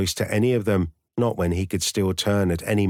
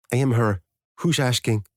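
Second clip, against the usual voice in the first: put-on older woman on the phone with a heavy Danish accent; thick Danish accent; 4 semitones higher than usual. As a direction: answer warily with thick Danish vowels. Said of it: "the voice said in a thick accent".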